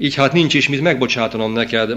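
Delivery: ordinary delivery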